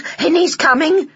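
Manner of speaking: high, loud call across water. Acted. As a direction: call out to the boy. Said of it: "she called".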